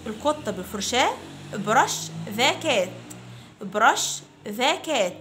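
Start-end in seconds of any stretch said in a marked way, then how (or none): 1.5-5.1 put-on very slow, clear drill phrase for children to repeat; slow model phrase. Shown as a demonstration. Teacher to fifth graders, model phrase very slowly. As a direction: stretch each word out for the class. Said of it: "Repeat after me".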